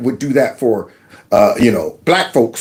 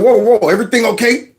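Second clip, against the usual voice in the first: raised, caring imitation of Trump; voicing Trump; 5 semitones higher than usual. To a crying woman on the street, a higher mock-caring voice. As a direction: call out to her with concern. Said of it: "goes over to her and said".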